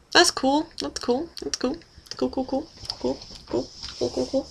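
fading mock interest. Vlogger pretends to hear viewers' replies, murmured and fading.

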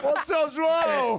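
laughing call. Real, not acted. Radio host calling out laughing.

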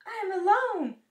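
high, loud alarmed wail; screaming in fright. A narrator's reading. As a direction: wail on finding yourself alone. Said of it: "screamed Toad".

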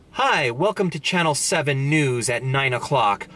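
mock newscaster in clean American English; perfect English accent. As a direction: imitate a news anchor's standard English accent. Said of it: "in a perfect English accent".

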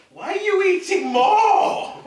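high, loud laughing question; laughing disbelief. Real, not acted. Friend keeps eating hot chips.

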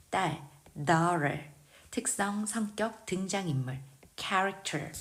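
"daughter" drawn out, first syllable leaned on; slow model. Shown as a demonstration. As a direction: stretch "daughter" slowly, stress on "dau". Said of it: "강세 확인하면서 읽겠습니다". ("daughter"를 천천히 앞 강세로)

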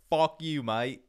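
lightly imitated Australian accent. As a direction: tell them off as a cool Australian. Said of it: "They're just like".

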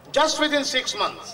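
very slow, high and drawn out; dramatic slow emphasis. Acted. Comedian stressing the second blow, slow dramatic English. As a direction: stretch each word for drama.

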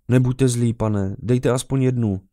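put-on high, drawn-out child's plea; pleading little boy. A narrator's reading. Boy begging the officer for one coin, high pleading. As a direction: beg persistently in a boy's voice. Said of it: "Nenechal se odbít chlapec".

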